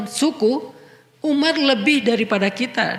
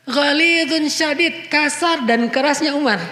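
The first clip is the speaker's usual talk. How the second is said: raised and louder, slow stress on Ghalidun syadid; preacher driving home a point; emphatic preaching; 6 semitones higher, 4 dB louder than usual. Real, not acted. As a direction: hammer the words Ghalidun syadid slowly.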